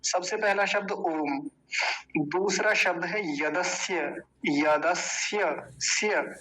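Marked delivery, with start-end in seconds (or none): 3.5-6.3 यदस्य drawn out with the final स्य fully sounded; careful full ending on यदस्य; full final sya. Shown as a demonstration. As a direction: say यदस्य slowly, giving the y and a of स्य their full value. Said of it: "पूरा बोलना चाहिए".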